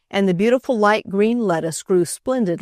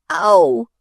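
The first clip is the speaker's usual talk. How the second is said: high, loud delighted cry; excited scream; 10 semitones higher, 7 dB louder than usual. Acted. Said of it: "screamed Freddie".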